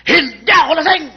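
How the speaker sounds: put-on loud, high-pitched drunk's denial; acted belligerent drunk protesting; bold defiance. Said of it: "Ba, matapang ah".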